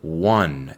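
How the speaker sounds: "Won" said like the number one; teacher modelling "Won" like one; model pronunciation. Shown as a demonstration. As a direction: say "Won" as wan. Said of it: "to win se convierte en won".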